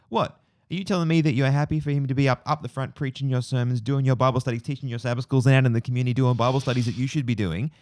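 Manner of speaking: put-on Southern American accent. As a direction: play the outraged Southern American pastor. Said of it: "in this really Southern American accent".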